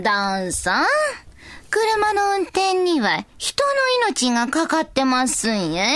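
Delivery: put-on slow, old-fashioned Kansai elder; creaky wise old man. Old figure's opinion read out.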